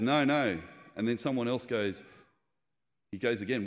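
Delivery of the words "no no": louder, higher firm no; preacher's loud no. Retold or imitated. Preacher correcting the congregation, loud firm no. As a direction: cut them off loudly.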